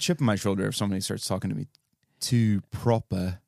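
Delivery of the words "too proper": slow mock-posh British; posh British accent. Podcaster mocking people who talk down, slow posh British accent. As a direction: draw it out in a proper British accent. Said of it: "a posh British, British accent".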